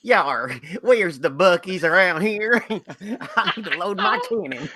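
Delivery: lightly hammed-up Southern pirate, half laughing; a playful hint of a drawling pirate captain. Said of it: "A, a Southern pirate".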